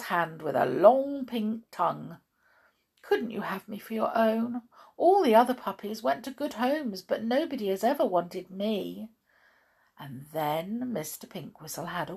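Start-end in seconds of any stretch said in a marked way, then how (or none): 3.0-9.1 lightly voiced hopeful, wistful dog; pleading dog. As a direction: plead as a lonely puppy, a little plaintive.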